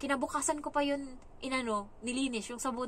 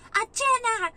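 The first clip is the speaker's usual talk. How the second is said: calling out; 11 semitones higher, 10 dB louder, slower than usual. Retold or imitated. Mother calling out again.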